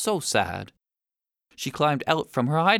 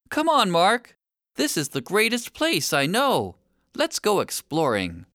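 bright, higher eager call; excited invitation; 4 semitones higher than usual. Acted. Tess inviting Mark to explore her world, excited. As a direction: lead him on, thrilled to show him.

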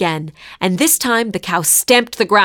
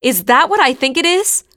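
high, loud startled question; stunned tourist staring at a cow; startled cry; 8 semitones higher, 3 dB louder than usual. A narrator's reading. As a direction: blurt it out in shock. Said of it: "cried Anya".

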